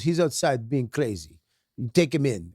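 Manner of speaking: put-on understated Russian-accented report to the wife. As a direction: lightly voice the Russian superintendent. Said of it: "She was Russian".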